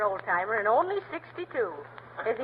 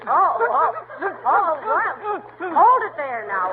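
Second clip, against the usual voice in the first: laughing; 3 semitones higher, 5 dB louder, much slower than usual. Acted. McGee laughs at the bee.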